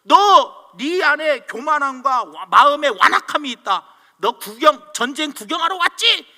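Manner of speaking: acted big-brother scolding; loud anger, imitated. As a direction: accuse him, opening with a loud burst. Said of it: "큰 소리로 화를 막 내는".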